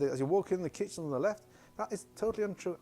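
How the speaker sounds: imitating a mother's worked-up protest; high, indignant contradiction, as retold; retold agitation. Mother disputing what the guides said, retold agitation. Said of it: "she was getting very excited".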